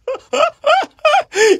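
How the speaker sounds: high bursting giggle; real laugh. Real, not acted. Storyteller cracking up mid-tale, high laugh. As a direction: break into high-pitched laughter.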